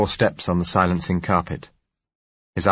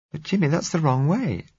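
frightened plea; 10 semitones higher than usual. A narrator's reading. Blind girl pleading with Jimmy, frightened and high. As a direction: beg him not to leave, scared.

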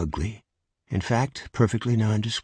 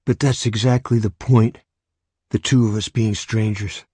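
urgent pleading; 4 dB louder than usual. Acted. Nervous stranger pleads with Jameson.

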